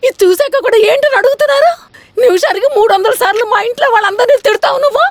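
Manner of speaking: crying complaint; tearful accusation. Acted. Wife crying at husband and mother-in-law about being cheated. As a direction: sob out the grievance.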